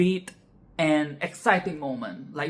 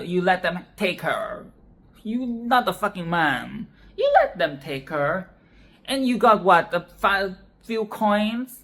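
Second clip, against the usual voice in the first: mocking granny; 2 semitones higher than usual. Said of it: "mocking him".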